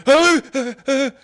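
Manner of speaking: high, loud fumbling; flustered. Retold or imitated. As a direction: caught off guard and stammering. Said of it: "And I'm like".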